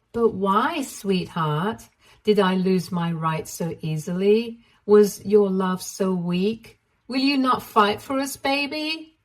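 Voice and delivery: a hint of whiny pouting; mock hurt, pleading; pouty. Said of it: "pouted and said".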